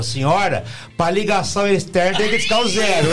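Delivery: prim hotel operator. Retold or imitated. Operator voice punchline.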